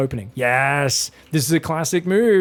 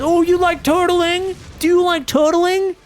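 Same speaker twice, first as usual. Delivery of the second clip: much higher, slow sneering tease; mock taunt; 11 semitones higher, 4 dB louder, slower than usual. Caster voicing a player mocking his foe, high slow mock sneer. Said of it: "Reina says".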